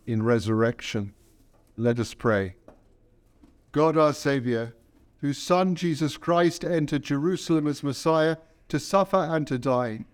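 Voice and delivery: measured, solemn leading of prayer; liturgical prayer. Acted. Priest opening the Palm Sunday liturgy, solemn and measured. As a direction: lead the congregation in prayer, unhurried.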